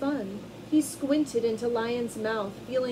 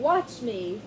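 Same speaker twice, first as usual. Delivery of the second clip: mild shout; 3 dB louder than usual. Acted.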